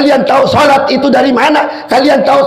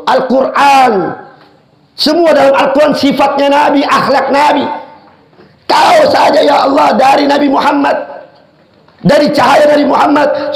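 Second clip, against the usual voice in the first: fervent preaching; 4 semitones higher than usual. Real, not acted. Preacher exalts the Prophet.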